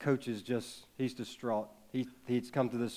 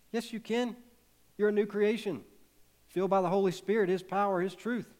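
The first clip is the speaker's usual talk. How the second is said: higher and louder, preaching it out; emphatic rising proclamation; 9 semitones higher, 5 dB louder than usual. Real, not acted. Preacher answering doubting hearers, emphatic proclamation. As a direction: lift your voice to answer the doubt.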